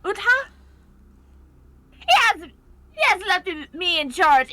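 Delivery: Sticky impression. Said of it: "your impression of him is quite good".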